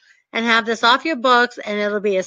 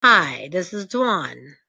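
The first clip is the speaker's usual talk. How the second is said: slow, lower, self-assured intro; confident; 5 semitones lower, slower than usual. Shown as a demonstration. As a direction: introduce yourself calmly in charge. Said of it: "So you say it like I say it".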